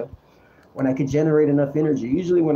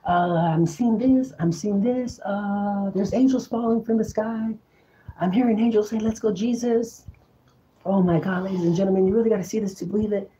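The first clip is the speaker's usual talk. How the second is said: put-on higher-pitched old radio broadcast announcer; Orson Welles; 7 semitones higher than usual. Broadcaster reporting angels falling from the sky, announcer impression. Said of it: "I wanna sound like Orson Welles".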